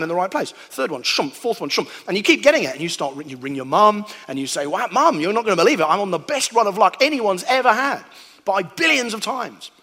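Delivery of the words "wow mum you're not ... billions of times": eager and bright, a bit higher and louder; bursting to tell mum the news; a giddy son calling home; excited phone call. Pretend. Phoning mum about lucky run.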